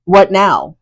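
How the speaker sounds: lightly imitated, drawn from the speaker's own voice; a hint of mock challenge; a rapper. Mimicking Jordan looking at her grandmother, a hint of challenge. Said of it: "in her rapper voice".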